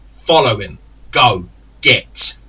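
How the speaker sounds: barked orders. Retold or imitated. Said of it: "I tell his friend".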